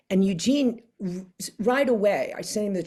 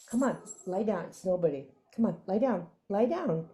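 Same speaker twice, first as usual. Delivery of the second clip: soothing the dogs; 5 dB quieter than usual. Real, not acted. Settling the dogs down.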